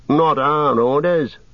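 high, drawn-out orc objection; defiant orc. A narrator's reading. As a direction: refuse as a rebellious orc.

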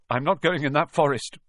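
scared refusal; panicky. Acted. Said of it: "the note of panic in his voice".

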